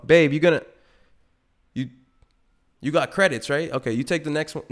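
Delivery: put-on slightly high teasing to girlfriend; mock brushoff. Boyfriend ditching his girl for the Lambo, teasing. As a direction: brush her off playfully.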